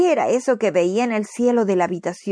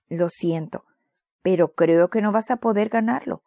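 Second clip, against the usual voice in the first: compassionate. Acted. Mother tells her sick son he'll miss the prize, gently. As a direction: gently break the bad news. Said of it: "dijo la mamá compasivamente".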